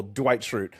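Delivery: Dwight as a single syllable, Dwight; one syllable. Shown as a demonstration. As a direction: say Dwight tightly in one beat. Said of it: "One syllable".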